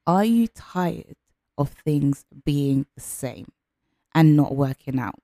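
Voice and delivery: slow, deliberate coaching question. Shown as a demonstration. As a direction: ask it slowly to make them think. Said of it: "coach asks slowly".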